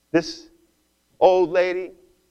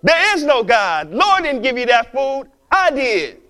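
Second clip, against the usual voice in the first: gloating; 4 semitones higher, 3 dB louder than usual. Retold or imitated. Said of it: "jumps from outside of the bush and says".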